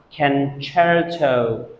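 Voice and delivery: CONCERTO said ken-CHAIR-toh; correct pronunciation. Shown as a demonstration. Teacher models the tricky word for students, correct pronunciation. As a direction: say concerto with a "cher" sound in the middle. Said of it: "because it is pronounced".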